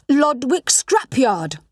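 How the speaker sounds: slow, drawn-out unison naming; chorused together. A narrator's reading. The two read the place name aloud together, slowly. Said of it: "we both chorused".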